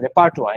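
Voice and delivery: "রেপারতোয়া" with a French "twa" ending; French-style pronunciation. Shown as a demonstration. Teacher likening the word to French, French-style pronunciation. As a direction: finish "রেপারতোয়া" on "twa", no r sound. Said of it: "মানে French ইয়ের মতো".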